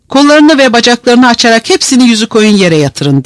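high-pitched sergeant's command; shouted order. A narrator's reading. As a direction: bellow orders at the soldiers, moderately loud. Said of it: "diye bağırdı".

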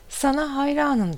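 high, mildly shouted praise; narrated shout. A narrator's reading. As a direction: call it out high, without much force. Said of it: "diye bağırıyor".

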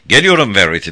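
loud, urgent call. A narrator's reading. Sarah calling to Verity as she rides toward her. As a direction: call ahead to reassure someone. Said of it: "diye seslendi ona".

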